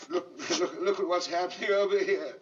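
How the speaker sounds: laughing coaxing. Real, not acted.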